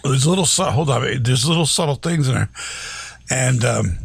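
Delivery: talking through a held sneeze; fighting off a sneeze mid-sentence; holding back a sneeze. Real, not acted. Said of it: "I'm trying not to sneeze".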